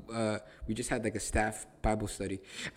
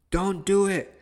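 stern command; 8 semitones higher, 9 dB louder, slower than usual. Acted. The law commanding a believer.

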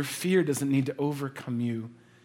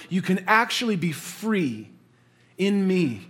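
loud, rising sermon climax; preaching at full force; 4 semitones higher, 5 dB louder than usual. Acted. Pastor urging the church, preaching loud. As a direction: build the promise with fervour.

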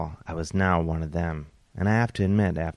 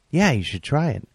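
higher voiced swinger guy; earring guy voice; 8 semitones higher, 4 dB louder than usual. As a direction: chime in with a higher voice.

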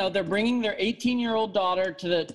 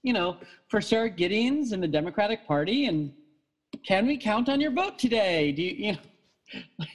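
script-reading phone voice; 3 semitones higher than usual. Retold or imitated. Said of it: "they give you these little scripts".

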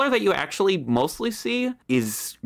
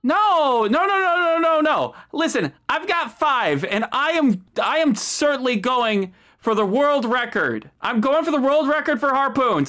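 rival captain; 6 semitones higher than usual. Acted.

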